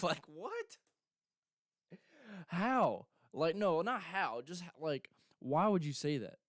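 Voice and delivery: can't believe anyone would say that; disbelief. Real, not acted. The vlogger reacting to a fighter's silly threat in disbelief. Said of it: "the cringiest thing a person could ever say".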